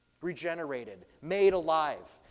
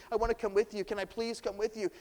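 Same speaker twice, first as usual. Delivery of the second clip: higher and louder, insistent pleading; the healed man pleading louder to go with Jesus; louder begging; 7 semitones higher, faster than usual. Retold or imitated. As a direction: push the plea harder. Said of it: "begging over and over".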